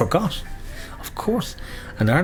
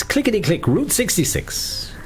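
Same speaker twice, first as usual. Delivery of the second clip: bingo caller; 10 semitones higher than usual. Acted. Bingo call nickname, high.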